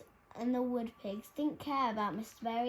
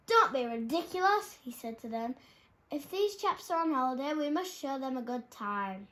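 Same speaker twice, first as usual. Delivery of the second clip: cheerful bear; 2 semitones higher, 5 dB louder than usual. Acted. Bear welcoming the party.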